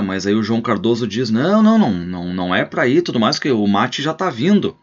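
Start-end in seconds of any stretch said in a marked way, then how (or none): 1.3-4.8 insistent host. Acted. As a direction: hold the guest back, urgent then coaxing. Host stopping the visitor leaving.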